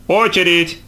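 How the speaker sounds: high, drawn-out call; окрик санитарки. A narrator's reading. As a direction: call out the next patient like an orderly. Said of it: "крикнула санитарка". (громкий протяжный окрик санитарки)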